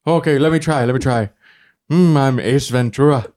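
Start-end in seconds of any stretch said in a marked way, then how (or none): 1.9-3.3 lightly voiced Jim Carrey; slow, hint of a Jim Carrey drawl; Jim Carrey impression. Asked to do Jim Carrey, slow mild impression. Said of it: "Can you do Jim?".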